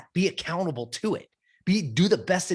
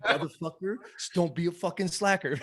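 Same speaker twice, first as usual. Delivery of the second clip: scolding through laughter, playfully; half-laughed tough-love nag; a playful inner-voice kick in the pants while laughing; laughing mock scold; 5 dB quieter than usual. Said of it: "hear my fucking voice in your head".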